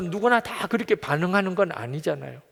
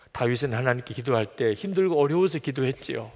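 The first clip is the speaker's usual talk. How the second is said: usual speaking voice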